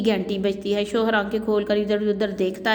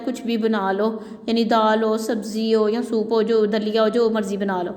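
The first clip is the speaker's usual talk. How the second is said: fed up. Acted. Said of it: "بڑے بیزاری سے بولتا ہے".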